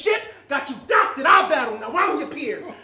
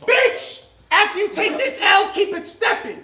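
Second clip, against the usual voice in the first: shouted punchline; 6 semitones higher, 5 dB louder than usual. Acted. Battle rap, yelling the punchline.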